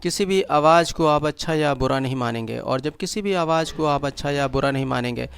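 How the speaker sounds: measured meditation guide with long pauses; guided meditation. Acted. Guide leading listeners into breath awareness and relaxation, guided meditation. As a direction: guide them step by step, leaving silences between instructions.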